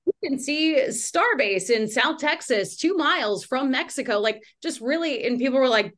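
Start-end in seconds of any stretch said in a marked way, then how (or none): 0.1-4.2 news anchor voice. Retold or imitated. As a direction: deliver it like a TV reporter. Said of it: "still in that reporter voice".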